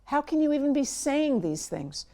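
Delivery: as if the idea is absurd; mock-appalled parent objecting; incredulous. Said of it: "You do not want to be saying that".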